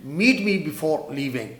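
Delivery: very slow, word by word; slow dictation. Shown as a demonstration. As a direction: dictate slowly for the class. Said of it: "نکلنے سے پہلے مجھ سے ملنا ہے".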